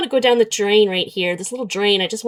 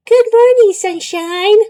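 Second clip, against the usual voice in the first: much higher, loud, saccharine greeting; a cloying robot boyfriend; mock chatbot; 11 semitones higher, 7 dB louder, slower than usual. The AI boyfriend's morning message, high mock cheer.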